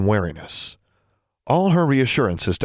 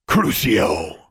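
forceful, cast the curse; commanding incantation. A narrator's reading. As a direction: hurl the spell out. Casting a curse.

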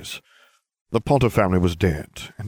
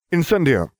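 sharp shouted incantation; shouted spell; 9 semitones higher, 3 dB louder than usual. A narrator's reading. Harry sets the vines alight, shouting. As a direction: cast it with a shout.

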